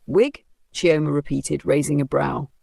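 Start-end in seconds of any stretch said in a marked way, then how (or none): 0.1-0.4 higher, disbelieving echo; can't believe what she heard; a sharp surprised echo; incredulous. Acted. Repeating in disbelief.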